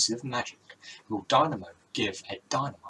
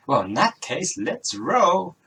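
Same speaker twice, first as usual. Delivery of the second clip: hammy pun delivery; 6 semitones higher, 7 dB louder, slower than usual. Acted. Magician makes a pun.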